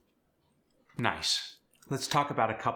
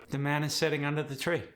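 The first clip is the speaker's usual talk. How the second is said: fast, higher South African reading; quick South African lilt, higher pitch; South African accent; 5 semitones higher, faster than usual. Shown as a demonstration. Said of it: "Let's try some sentences".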